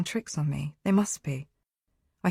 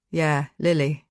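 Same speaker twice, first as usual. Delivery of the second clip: gentle; slower than usual. A narrator's reading. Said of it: "he says gentle".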